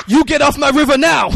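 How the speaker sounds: put-on loud, high Asian-accent parody through laughter; mock-angry order in exaggerated Asian accent; hammed-up shouted Asian accent. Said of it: "I do this accent".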